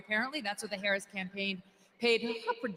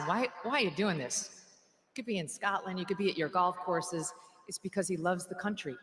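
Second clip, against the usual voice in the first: sincere reflection; 5 semitones lower than usual. Real, not acted. Turns to prayerful reflection.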